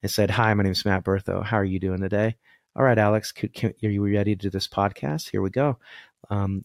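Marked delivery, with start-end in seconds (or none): 0.3-5.8 switched-off voice. Shown as a demonstration. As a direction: rattle it off with no spirit. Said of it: "if I just turned it off and said".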